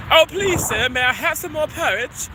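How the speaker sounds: lightly acted British accent. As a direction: plead politely in an amateur British accent. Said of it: "your British accent is so much better than mine".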